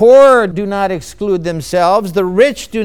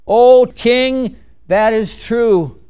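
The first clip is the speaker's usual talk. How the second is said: fawning courtiers; slower than usual. Acted. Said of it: "all the men would say".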